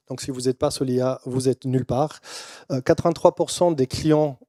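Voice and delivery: non-native speaker's accented French; French with a foreign accent. Real, not acted. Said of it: "je suis désolé si mon français n'est pas assez bon".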